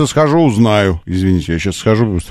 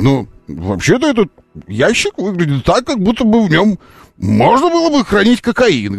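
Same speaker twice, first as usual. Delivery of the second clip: mock innocent reply; 10 semitones higher than usual. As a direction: voice rising high and innocent. Depp answering in court.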